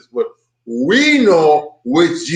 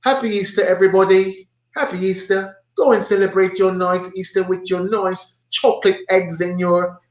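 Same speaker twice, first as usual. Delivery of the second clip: high mocking imitation of the narrator; sing-song mock of the narrator's cheer; 6 semitones higher than usual. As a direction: parody his cheerful send-off, pitched up. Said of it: "he talk about".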